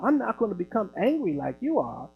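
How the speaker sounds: imitating a man keeping his composure; measured, unruffled retort, acted out; real calm. Calm man asks angry caller to settle down, real calm. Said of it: "He was just so calm".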